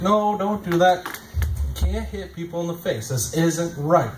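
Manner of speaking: put-on slow, patient correction of a child; gentle scolding. Comic telling nephew off, slow patient voice. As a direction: guide the kid back gently and slowly. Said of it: "most people would guide him back".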